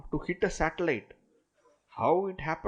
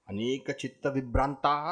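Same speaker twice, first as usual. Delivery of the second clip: faster recitation; 2 semitones lower, much faster than usual. Shown as a demonstration.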